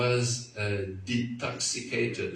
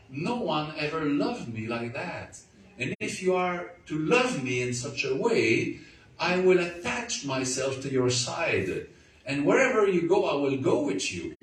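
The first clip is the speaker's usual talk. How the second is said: fast, higher, louder, fervent promise; tearful vow; 5 semitones higher, 4 dB louder than usual. Retold or imitated. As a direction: pour out the promise eagerly. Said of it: "telling him through my tears".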